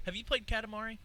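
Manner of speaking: lightly posh maitre d' voice; a hint of a fancy restaurant host; snooty waiter. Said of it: "talking like a maitre d' at a restaurant".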